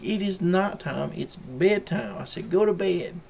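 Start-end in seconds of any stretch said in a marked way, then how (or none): 0.0-2.2 slow, high-pitched telling-off; mock scolding. Owner telling his dog it is bedtime, high slow scolding. 2.5-3.2 higher, louder retold command; mock stern order. Owner sending his barking dog to bed, high mock-stern order.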